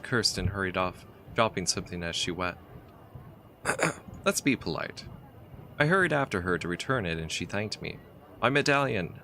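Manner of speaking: reading the game's story text aloud, evenly; story narration. A narrator's reading. Player reading the adventure's story, steady narrator voice. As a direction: tell it like a travel tale.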